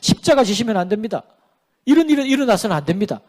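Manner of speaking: a touch of urgent protest; protesting Peter. Retold or imitated. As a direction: object firmly, as if blocking the way. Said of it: "예수님을 가로막고 뭐라고 말합니까".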